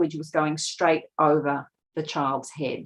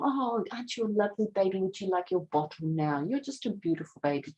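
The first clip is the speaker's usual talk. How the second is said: soft, quick cooing at a newborn, much softer; baby talk; 2 semitones higher, 7 dB quieter, faster than usual. Retold or imitated. Lecturer imitating a mother talking to her newborn, soft quick cooing. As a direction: croon to a baby, lightly and fast. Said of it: "We talk in very long".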